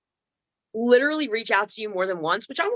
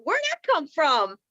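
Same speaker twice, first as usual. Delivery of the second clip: higher-pitched mock wonder; admiring self-talk; 5 semitones higher, slower than usual. Woman alone at bathroom mirror, mock-amazed self-talk. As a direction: marvel at yourself, slowly and playfully. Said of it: "talking to myself like this".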